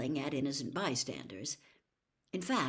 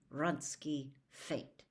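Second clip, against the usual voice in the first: slow, softer, through gritted teeth; a quidditch fan correcting her, teeth clenched; 2 semitones lower, 4 dB quieter, much slower than usual. Acted. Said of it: "said Harry through gritted teeth".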